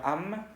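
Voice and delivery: "am" with the final M closed and audible; sounded M. Shown as a demonstration. Teacher showing the exception, fully sounded M. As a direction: close the lips on "am". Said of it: "Si no sería".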